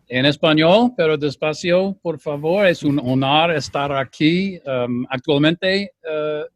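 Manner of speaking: Spanish with an American accent; careful Spanish, American accent. Real, not acted. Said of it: "perdona mi español".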